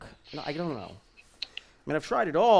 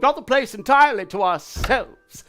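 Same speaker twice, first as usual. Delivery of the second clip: lightly voiced stage character, lively; 6 dB louder than usual. Actor rehearsing a play scene over Zoom, lightly in character.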